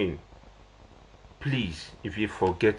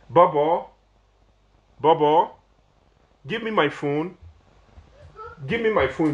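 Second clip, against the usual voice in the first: calling out; 6 semitones higher, 3 dB louder than usual. Real, not acted. Calling someone in another room.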